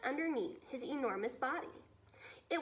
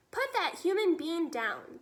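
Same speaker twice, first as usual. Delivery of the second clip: louder firm order; shouted command; 4 semitones higher, 5 dB louder than usual. Acted. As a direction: order the giant down. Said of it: "the B F G shouted".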